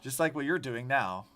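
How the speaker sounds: measured, lightly acted story reading; game dialogue read-aloud. Streamer voicing game characters' dialogue for viewers, measured read-aloud. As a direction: read it out evenly, like scripted character lines.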